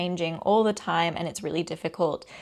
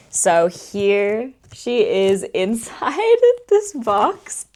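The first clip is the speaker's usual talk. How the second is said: excited; 2 semitones higher, 5 dB louder, much slower than usual. Real, not acted. Unboxing her long-awaited product.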